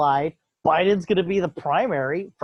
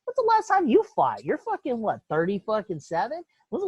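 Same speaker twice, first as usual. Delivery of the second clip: much higher, disbelieving jab; incredulous; 5 semitones higher than usual. Real, not acted. Mocking Biden's fight challenge, much higher and incredulous.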